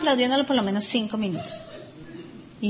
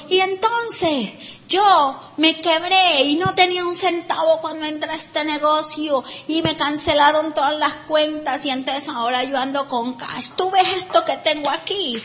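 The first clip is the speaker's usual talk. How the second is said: mock boastful speaker; 3 semitones higher than usual. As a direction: brag like a self-made man.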